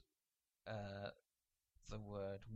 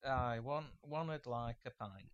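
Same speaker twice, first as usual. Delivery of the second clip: put-on Yorkshire accent; 5 dB louder than usual. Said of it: "Use it in your best Yorkshire".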